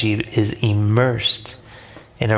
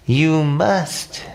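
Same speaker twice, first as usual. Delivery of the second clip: firm; 6 semitones higher than usual. A narrator's reading. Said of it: "Scorpio says firmly".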